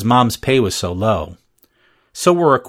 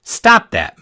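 sharp, loud snap; snapped; 12 semitones higher, 6 dB louder than usual. A narrator's reading. Lunch lady stopping the child at the keypad, loud snap. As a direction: bark it at the kid. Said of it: "Missus Dudley snapped".

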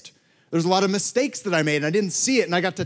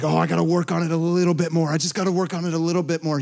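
mock fretting; 2 semitones higher, faster than usual. Mimics a pastor who can't stop working.

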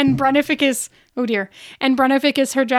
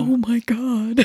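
slow awed whisper; slower than usual. Real, not acted. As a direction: breathe it out in awe. Awed over the recording.

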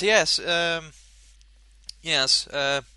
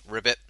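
frog croak; 4 semitones lower than usual. Pretend. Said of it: "frog in my throat".

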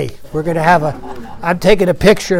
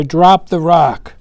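drawn-out, half-hearted call; mildly voiced distant yelling; mock yell; much slower than usual. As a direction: imitate people yelling out, stretched slow. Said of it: "they're yelling out there".

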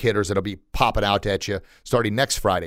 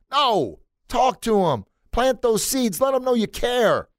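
urgent plea; 11 semitones higher, slower than usual. Real, not acted. Urging listeners, pitch jump.

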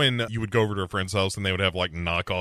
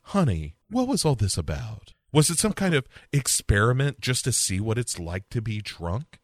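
gentle mom. Retold or imitated. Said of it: "she's just like".

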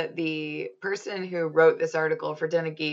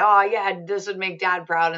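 put-on wholesome 1950s kid; 3 semitones higher, 5 dB louder than usual. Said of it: "slightly more childish take".

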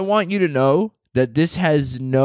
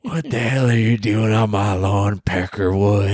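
shouting at trespasser; 6 semitones lower than usual. Acted. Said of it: "That's a good one".

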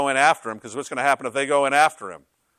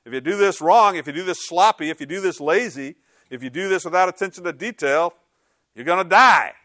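mock stern warning; 3 semitones higher than usual. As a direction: imitate God warning, ending in an emphatic cry. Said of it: "And God warned them".

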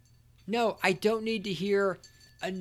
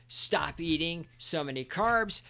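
normal talking voice

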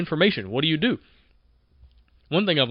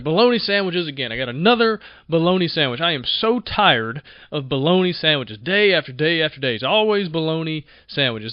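a mildly louder, fed-up moan over lunch; frustrated complaining; 3 dB louder than usual. Retold or imitated. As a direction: grumble like a worker sick of the same sandwich. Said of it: "He's so frustrated".

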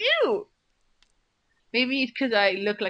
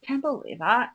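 imitating a whiny girl. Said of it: "It's equivalent to the Holocaust".

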